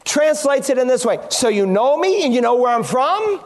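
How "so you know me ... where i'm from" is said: lightly ironic, doubting question; sarcastic. Retold or imitated. Preacher reading a paraphrase of Jesus' reply, sarcastic. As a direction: echo their claim back as a mock question.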